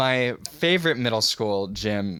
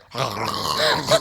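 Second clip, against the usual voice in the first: mock gargle through laughter; imitated gargling; 3 semitones lower than usual. Teacher lying in the middle of the circle, mock gargling. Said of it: "gargling in the middle of the circle".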